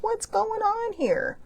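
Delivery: high, slow mock of a big guy stepping in. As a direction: play the big guy breaking it up. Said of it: "this big guy comes over, and he's like".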